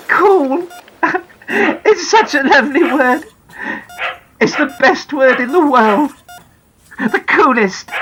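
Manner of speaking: high, slow, laughing joy; a mother laughing with relief; delighted laugh. Acted. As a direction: savour the word with a laugh. Mum delighted by son's word.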